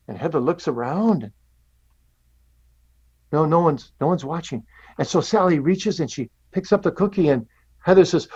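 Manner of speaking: put-on gentle storyteller voice for little kids; telling a story to children. Shown as a demonstration. Pastor telling children a cookie story, gentle and lively. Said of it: "I'll say it like I'm saying it to children".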